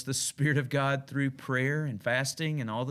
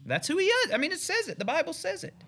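emphatic outburst. Real, not acted. Sudden high emphatic aside.

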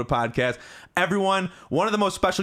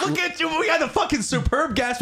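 high excited look at this; excited squeal; 12 semitones higher than usual. Real, not acted. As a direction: squeal it with delight.

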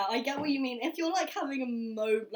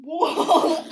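excited exclaim; 5 semitones higher, 11 dB louder than usual. Real, not acted. Realizes the right name.

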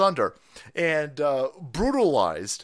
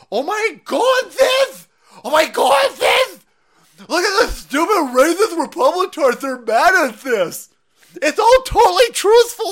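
high shrieking mock outrage, much louder; mocking liberal outrage; 12 semitones higher, 8 dB louder, slower than usual. Mocking the left-hand side in a shrill outraged shout. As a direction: shriek it like a hysterical caricature. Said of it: "They're like".

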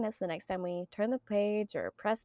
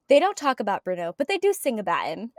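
English teacher's British accent, imitated; 6 dB louder than usual. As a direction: put on a rough British accent. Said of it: "that's my terrible British accent".

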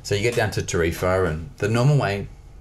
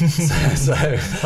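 Spanish swim chief; 8 semitones higher, 6 dB louder than usual. Retold or imitated. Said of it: "I'm not gonna do a Spanish accent".

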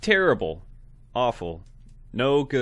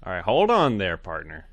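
Southern cowboy; 3 dB louder than usual. Acted. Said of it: "we're both clearly Southern men".

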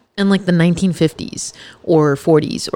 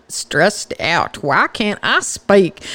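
playful put-on British accent, slower on the question; mock British accent; much slower than usual. Host jokingly imitating what English listeners think Americans sound like, mock British accent. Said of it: "people from England probably think we talk like this".

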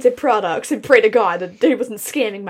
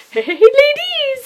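high, loud squeaky chipmunk greeting; 13 semitones higher, 4 dB louder than usual. Retold or imitated. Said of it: "he got a little chipmunk voice".

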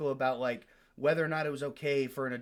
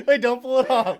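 excited; 9 semitones higher, 12 dB louder than usual. Real, not acted. Excited confusion, loud.

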